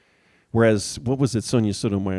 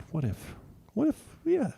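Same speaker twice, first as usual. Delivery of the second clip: higher, softer mock Alito musing; 3 semitones higher, 3 dB quieter than usual. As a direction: lightly imitate a judge musing aloud, higher and hushed. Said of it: "who said".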